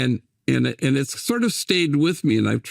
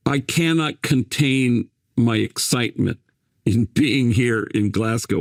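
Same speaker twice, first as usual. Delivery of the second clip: deadpan, even-keeled imitation of excitement; imitated calm; 2 semitones lower than usual. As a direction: say it very calmly, with no excitement at all. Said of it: "he said very calmly".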